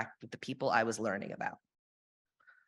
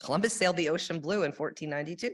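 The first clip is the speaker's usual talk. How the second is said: fast, higher nursery rhyme recital; sing-song rhyme; 4 semitones higher, faster than usual. Retold or imitated. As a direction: rattle off the school rhyme.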